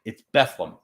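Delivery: Bethlehem clipped to Beth-lem; Bethlehem, two syllables, hometown style; local Bethlehem. Shown as a demonstration. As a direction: swallow the middle syllable of Bethlehem. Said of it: "crossing out, like, a whole syllable".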